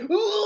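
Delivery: high imitated yelp; mock doctor cry. The doctor imitated, with a high mock yelp. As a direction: yelp like the doctor pulling his face off. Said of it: "So he's like".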